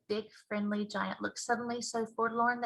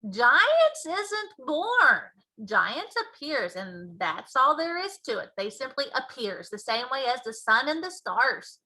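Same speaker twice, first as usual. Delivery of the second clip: big friendly giant, louder and slower; BFG giant voice; 3 semitones higher, 4 dB louder than usual. Acted. Giant explaining to Sophie, loud and slow. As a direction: boom out the giant's mangled grammar.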